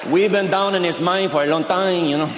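imitated trapped miner. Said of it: "Do you think they're down that mine going".

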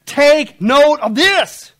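"Take note of this" dragged out slow and loud; "Take note of this" booming and very slow; slow emphatic. Shown as a demonstration. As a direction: spell out "Take note of this" word by word. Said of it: "what's the word there?".

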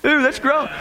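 high, wailing cartoon disgust; grossed-out fish. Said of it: "and the fish went".

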